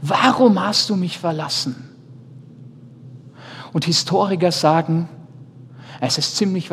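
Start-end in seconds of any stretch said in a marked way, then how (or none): 0.0-1.8 raised-pitch cry, not truly shouted; restrained imitation of an anguished outcry; mock cry. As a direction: cry it out higher, as an acted plea. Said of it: "dass Jesus schrie".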